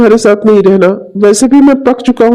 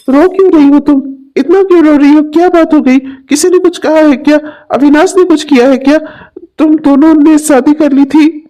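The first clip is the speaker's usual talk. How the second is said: worried concern; 4 semitones higher than usual. Acted. Friend finds Sudha crying.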